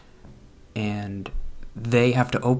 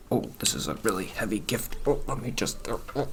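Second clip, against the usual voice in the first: confident; 3 dB quieter than usual. Retold or imitated. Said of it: "You have to be more confident".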